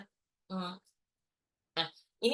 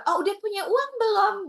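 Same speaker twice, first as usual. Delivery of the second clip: husband's voice; 9 semitones higher, 4 dB louder than usual. Retold or imitated. Husband voiced kindly to wife.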